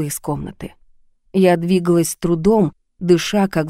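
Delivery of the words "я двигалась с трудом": usual speaking voice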